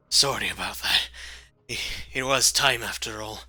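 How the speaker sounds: put-on Australian-like accent; Australian-sounding man. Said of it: "Turned into an Australian man".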